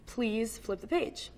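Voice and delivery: slow French-accented reading. Shown as a demonstration. Reading on from the card, French accent. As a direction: read it slowly, French accent. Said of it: "reread the card in a French accent".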